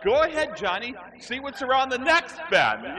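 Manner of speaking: high, loud, frightened coaxing; mock panicked urging. Scared adults push a little kid ahead, high mock panic. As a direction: shove the kid forward with a comic shriek.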